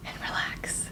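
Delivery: breathy whisper on the last words. Real, not acted. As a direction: drop to a whisper as if already relaxing. Dreamy aside about relaxing.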